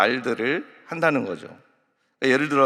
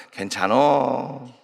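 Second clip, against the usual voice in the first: very slow, easygoing Chungcheong reassurance; Chungcheong mother-in-law; slower than usual. Retold or imitated. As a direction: comfort the bride slowly in Chungcheong dialect. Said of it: "충청도 시어머니가".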